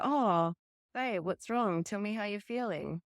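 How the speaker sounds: tender friend. Retold or imitated. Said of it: "you're gonna go".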